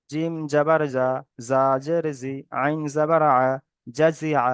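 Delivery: measured syllable-by-syllable spelling drill; spelling recitation. Shown as a demonstration. Teacher shows students how to read joined letters, measured spelling recitation. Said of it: "এইভাবে পড়তে হবে".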